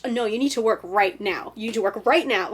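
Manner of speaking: mock-stern self-command, building on the repeat; insistent inner voice. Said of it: "the voice would just get, like, louder and louder".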